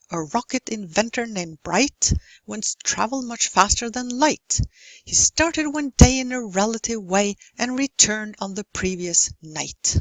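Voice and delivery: limerick read with a strong beat; rhythmic stress. Shown as a demonstration. Teacher rereading the limerick to show its stresses. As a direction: read it again, leaning on every beat. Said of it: "mark the stressed syllables here".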